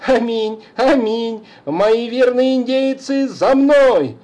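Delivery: high, loud gleeful cry; rally the imaginary troops; cheerful shouting. Acted. Johnny cheerfully calls his faithful Indians, gleeful shout. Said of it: "уже весело кричал".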